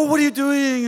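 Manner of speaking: high, worried mum imitation; protesting mother. Mom objecting as dad scares the children, high mock alarm. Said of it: "Moms go".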